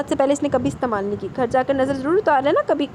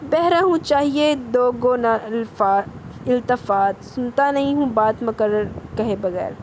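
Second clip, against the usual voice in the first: slow, drawn-out teasing recitation of a couplet; mocking verse recital; slower than usual. Caller teasing the teacher with a slow recited couplet. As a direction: recite the verse slowly to mock her.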